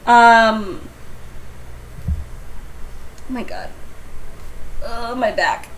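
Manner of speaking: strained voice while stretching. Real, not acted. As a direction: talk through a stretch. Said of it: "I'm stretching".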